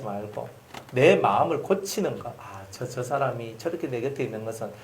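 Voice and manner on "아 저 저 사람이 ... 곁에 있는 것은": quiet inner reflection. Retold or imitated. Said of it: "이렇게 여러분이 생각을".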